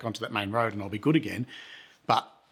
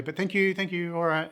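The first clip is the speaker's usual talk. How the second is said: higher-pitched re-enacted thanks; polite refusal; 7 semitones higher than usual. Nervous visitor excuses himself from the drinkers, high polite thanks. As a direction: back out politely, voice lifted.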